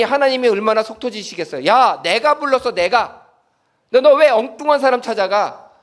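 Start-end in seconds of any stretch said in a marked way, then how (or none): 1.6-5.7 loud exasperated scold as God; hammed-up rebuke, raised pitch; a frustrated God scolding the boy; mock scolding. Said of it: "이렇게 야단치시는 분이 아니라".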